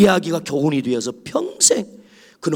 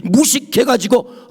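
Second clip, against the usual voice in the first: mock shout; 5 semitones higher, slower than usual. 무식하다는 말에 폭발하는 장면.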